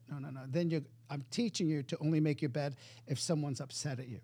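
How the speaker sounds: soft, lightly acted calming of a child; reassuring father. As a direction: quietly settle a startled son, retold. Calming his son who jumped.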